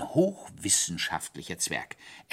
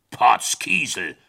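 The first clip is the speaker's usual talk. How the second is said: startled exclamation; 8 dB louder, slower than usual. Acted. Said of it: "sprach seine Majestät".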